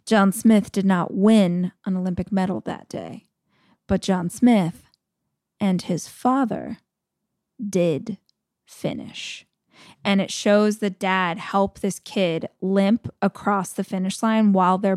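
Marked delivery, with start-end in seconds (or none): 0.1-9.4 Morgan Freeman narration fading to a hush. Retold or imitated. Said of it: "And Morgan Freeman's like".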